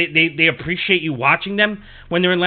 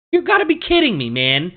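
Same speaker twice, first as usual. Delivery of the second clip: incredulous shouting, pitched way up; exasperated rant. Real, not acted. Fan venting at the Yankees' strikeouts, furious disbelief. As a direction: blow up at the team's failure.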